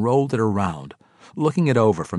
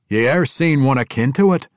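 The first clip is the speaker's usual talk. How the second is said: dwarf voice; 6 semitones higher, 7 dB louder than usual. Acted. Conrad asks Emrys.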